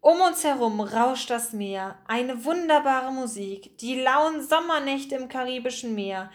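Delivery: mildly theatrical recitation; lightly declaimed, lyrical phrasing; declaiming. A narrator's reading. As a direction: recite it dreamily, like remembered lines. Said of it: "schloss die Augen und deklamierte".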